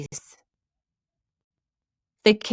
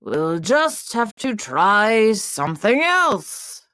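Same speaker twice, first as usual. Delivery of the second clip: weary king. Acted. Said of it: "sighed the king".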